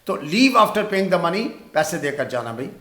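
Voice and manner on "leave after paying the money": very slow, word by word; slow dictation. Shown as a demonstration. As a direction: dictate slowly for the class. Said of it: "پیسے دینے کے بعد".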